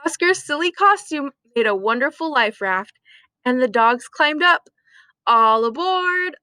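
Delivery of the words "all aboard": calling out. Acted. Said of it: "Oscar called".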